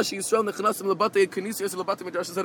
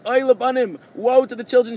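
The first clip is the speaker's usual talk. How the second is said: wailing voice; 4 semitones higher, 4 dB louder than usual. Retold or imitated. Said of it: "a Baskol ... that was wailing".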